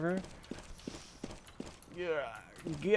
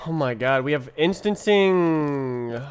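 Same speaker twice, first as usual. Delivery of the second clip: loud, slow, amazed; excited; 7 dB louder than usual. Real, not acted. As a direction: savor the discovery, drawn out. Excited discovery of a feature.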